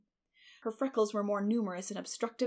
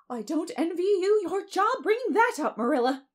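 high, loud, weighty pronouncement; scandalized busybody's solemn verdict; unspeakable solemnity; 10 semitones higher, 9 dB louder than usual. A narrator's reading. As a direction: declare it with grand disapproval. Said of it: "said Missus Rachel with unspeakable solemnity".

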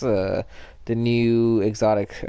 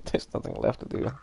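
whispering; 3 semitones lower, 8 dB quieter, faster than usual. Real, not acted. Done with God of War.

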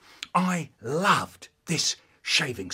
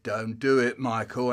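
understated inner warning; little voice of conscience; 3 semitones lower than usual. Acted. Conscience warning boy off bending it, mild warning. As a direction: caution gently, just under the story. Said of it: "a little voice said".

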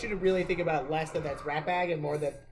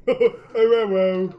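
higher, slow, louder put-on sweet voice; simple nice voice; 6 semitones higher, 9 dB louder, much slower than usual. Friend voicing an orc as simple and nice. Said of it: "he should have been like".

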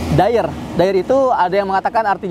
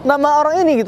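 higher-pitched, taken-aback question; startled disbelief, imitating the group; acted startled surprise; 7 semitones higher than usual. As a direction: voice their shock, pitch jumping up. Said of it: "Kaget mereka".

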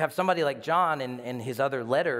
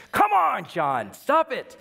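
much higher, louder cry then slow plea; exasperated shout; 8 semitones higher, 7 dB louder, slower than usual. Retold or imitated. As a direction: call out to a friend running ahead. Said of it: "Imagine Peter going".

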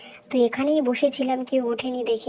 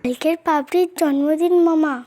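louder, eager "পাপড়ির জন্মদিন"; excited announcement; 3 semitones higher, 6 dB louder than usual. Acted. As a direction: burst out the news. Excited child announcing birthday. (উত্তেজিত হয়ে ঘোষণা)

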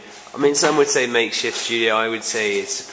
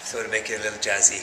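Welsh accent; faster than usual. Shown as a demonstration. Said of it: "You say that in a Welsh accent".

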